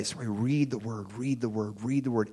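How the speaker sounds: soft insistent repetition; quiet repeated refrain. Shown as a demonstration. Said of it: "repeated soft refrain".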